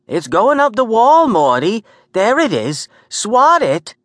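high-pitched, loud panicked woman; frantic shouting. Acted. Gert urging Morty to swat the creature, frantic cry.

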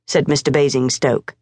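ordinary delivery, nothing marked

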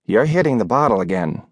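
a mild, steady reproach; landlady's scolding. Acted. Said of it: "Missus Cushman said".

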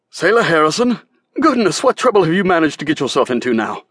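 put-on a merchant teasing a girl he knows; amused merchant. A narrator's reading. Hancock voiced in story.

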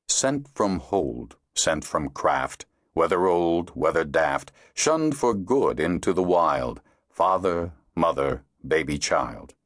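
slow, measured verse reading; poem recitation. A narrator's reading. Narrator opening the chapter with a ballad, measured recital.

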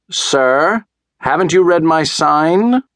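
high, indignant calling out; shouted reproach. A narrator's reading. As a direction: call down high with mild storybook force. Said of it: "Doctor DeSoto shouted".

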